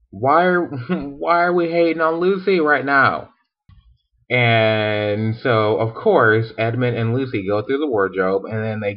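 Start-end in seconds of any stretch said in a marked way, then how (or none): 0.1-3.3 higher-pitched, lightly acted protest; put-on disbelief; mock indignation. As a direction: object in a playfully baffled way. Acted professor objects to teasing Lucy.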